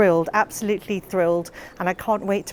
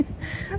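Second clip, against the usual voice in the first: soft laugh; 11 dB quieter than usual. Real, not acted. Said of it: "Why can't I speak?".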